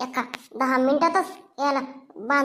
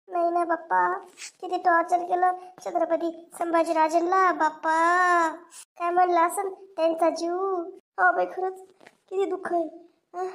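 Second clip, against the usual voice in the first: tearful; 4 semitones higher than usual. Acted. Woman weeping after the film, friend tells her to stop crying. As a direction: talk through tears over the sad film ending. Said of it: "बस कर रडणं आता".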